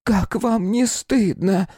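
высокий медленный старушечий окрик; укоризненно крикнуть с балкона по-бабушкиному; старушка кричит из окна. A narrator's reading. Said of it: "закричала с третьего этажа". (бабулька кричит хулиганам с третьего этажа, высоко и протяжно)

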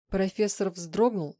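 ordinary delivery

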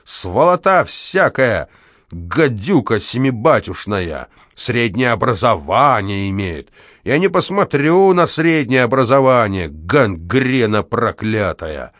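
slow, drawn-out curses; angry ranting. Acted. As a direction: hurl each insult slowly. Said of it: "вопил дворник". (дворник скандалит, медленно растягивая ругательства)

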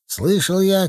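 high, protesting voice; mild narrated shout. A narrator's reading. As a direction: protest with lifted pitch, little added volume. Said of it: "кричал Степашин". (высокий протестующий голос, сдержанный выкрик)

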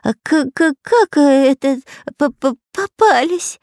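high, slow stutter of terror; can't get the words out for fear; terrified stammer. A narrator's reading. The terrified spy stammers, unable to believe it. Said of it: "насмерть перепуганный шпион Дырка".

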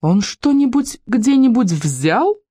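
slow, high, emphatic questioning; menacing challenge. A narrator's reading. A mother advances on the policeman, menacing. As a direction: press each word, climbing at the end. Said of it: "Ещё грознее наступая на милиционера".

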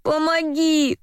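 high, drawn-out plea; pleading. A narrator's reading. Drowning Varvara to the courier at the door, pleading. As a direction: beg for help without shouting. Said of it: "взмолилась Варвара".

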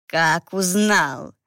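slow menacing hiss. Acted. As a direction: hiss it like a snake priest. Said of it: "прошипел жрец".

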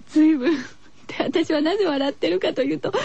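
giggling through the words; can't stop laughing; 笑いながら. Real, not acted.

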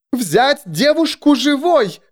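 high, drawn-out command; shouted order. A narrator's reading. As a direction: call the order across a crowd. Bishop orders guards to seize girl.

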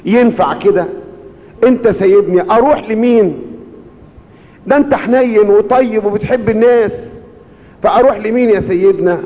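high, pleading plea to the pope; pleading cry. Retold or imitated. A grieving man begging Pope Kyrillos not to leave. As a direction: beg him not to leave you.

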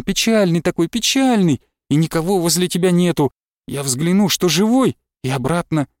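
a hint of a loving wife pouring out her heart to Andrey; Nastyona's voice. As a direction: pour it out to him, tender and hurried. Narrator voices Nastyona at length.

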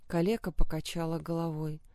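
usual speaking voice

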